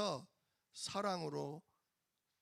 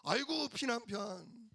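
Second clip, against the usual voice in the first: mock nagging; 4 semitones higher than usual. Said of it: "잔소리를 하고 욕을 해도".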